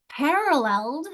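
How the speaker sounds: "Paralleled" with a high PAR; first-syllable stress. Shown as a demonstration. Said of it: "final syllable is stressed".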